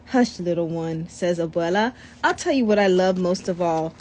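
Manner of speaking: put-on calm the child gently; a hint of a loving grandmother; tender grandmother. Grandmother comforting the boy.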